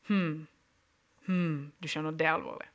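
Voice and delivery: low, soft and serious; a doctor pausing to think before bad news; doctor delivering a grim diagnosis, low and quiet; grave doctor. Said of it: "han er veldig seriøs".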